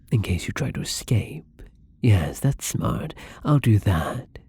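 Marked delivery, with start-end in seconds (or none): 0.1-1.6 softer, whispered aside; hushed, awkward explanation. Acted. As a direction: half-whisper it sheepishly. Nervously explaining closing the door.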